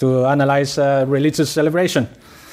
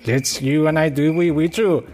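put-on Pedro pleading in a light Mexican accent; slowed, crooning mock Mexican lover; slower than usual. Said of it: "I tried to make the Mexican accent".

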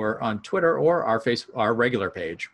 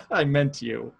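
laughing, slow and raised; louder, slower repeat; 5 semitones higher, 3 dB louder, slower than usual. Shown as a demonstration. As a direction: say it again louder through a laugh.

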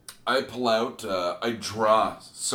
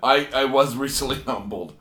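laughing; 5 dB louder than usual. Real, not acted. Laughing while repeating.

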